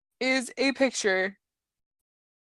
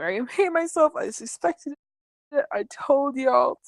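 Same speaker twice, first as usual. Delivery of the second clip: acted group outcry; 4 semitones higher than usual. Voicing everyone's outcry in chat.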